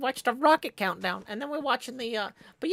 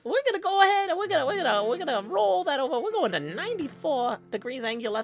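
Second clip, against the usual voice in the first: put-on British accent. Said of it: "I'm not doing the British voice".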